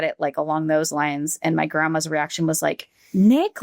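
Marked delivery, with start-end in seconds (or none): 3.1-3.6 mimicked anguished cry of a name, pitched up and loud; a grieving grandmother's cry for her grandson, half-acted; retold anguished call. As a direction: echo the grandmother's broken call, rising. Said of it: "she was, like, all broken up".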